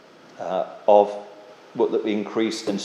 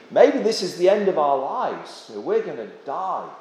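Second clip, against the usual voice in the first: imitated despair; 4 semitones higher than usual. Disciples in the storm thinking their end has come, imitated despair. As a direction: voice their despair, high then sinking in level. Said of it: "in the midst of their depression and total despair, thinking".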